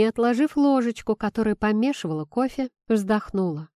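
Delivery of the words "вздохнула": usual speaking voice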